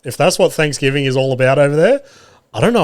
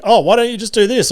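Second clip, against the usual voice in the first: mimicking wife; 9 semitones higher than usual. Wife nagging from passenger seat.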